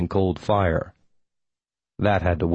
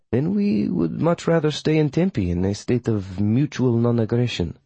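higher, diplomatic coven witch; formal witch, negotiating; 3 semitones higher than usual. Acted. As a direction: set out terms politely in the witch's voice. Voices witch Melina negotiating terms.

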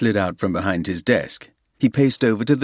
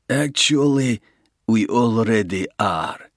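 a lightly voiced Russian gangster, smooth and sure; menacing Russian; 4 semitones higher, 3 dB louder than usual. Russian gangster offering Soames a deal, smooth menace. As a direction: lay out the terms like a patient crook. Russian reveals his move.

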